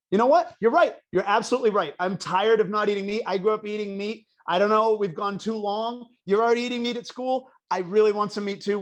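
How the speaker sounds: loud, fed-up declaration, retold; mom's emphatic outburst. Vegetarian mom announcing change to son, loud conviction. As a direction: build a case as the mother giving in.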